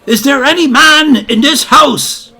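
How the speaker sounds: put-on high, loud, posh young officer; plummy young officer calling at the door. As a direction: put on the airs of a toffee-nosed young pup. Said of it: "in this la-di-da voice".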